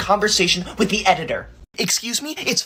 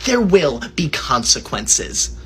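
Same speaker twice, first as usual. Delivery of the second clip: slow threat; 5 semitones lower, slower than usual. Acted. Ominous threat.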